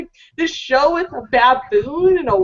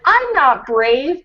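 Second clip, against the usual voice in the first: slow timid dog; much slower than usual. Retold or imitated. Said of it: "And he's like".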